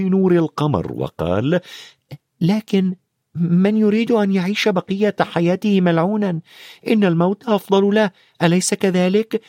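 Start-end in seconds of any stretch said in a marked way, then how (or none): 2.4-9.4 put-on higher boyish voice; Harry asks the centaur, boyish and curious; young Harry. A narrator's reading. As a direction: ask like a puzzled boy on horseback.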